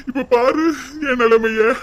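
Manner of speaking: husband breaking down before his wife over being thrown out; crying husband. Acted. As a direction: voice catching into a sob. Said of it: "அழுகாதீங்கங்க".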